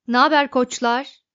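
an overkeen machine glad to chat; great enthusiasm. A narrator's reading. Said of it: "büyük bir hevesle". (büyük bir hevesle, coşkulu)

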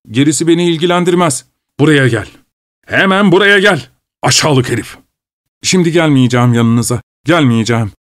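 a hint of a grumbling manservant; Petruşka the servant. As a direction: protest like a sulky servant. Petruşka defies his master.

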